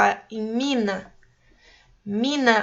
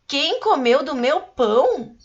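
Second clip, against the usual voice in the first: "pão" lifted as a dwarf's question in a put-on voice; 3 semitones higher than usual. Shown as a demonstration. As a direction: ask "Quem comeu do meu pão?" clearly. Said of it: "voz de pergunta". (voz de pergunta)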